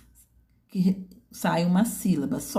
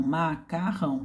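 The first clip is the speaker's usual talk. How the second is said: slow syllabic reading; 3 dB quieter than usual. Shown as a demonstration. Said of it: "então ele vai ler macarrão".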